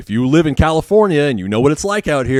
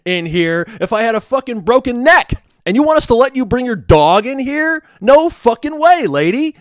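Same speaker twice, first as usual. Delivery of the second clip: high, loud, exasperated outburst; a fed-up nurse yelling back at the patient about her dog; angry retort; 10 semitones higher, 4 dB louder than usual. Retold or imitated. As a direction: blow up at her, disbelieving.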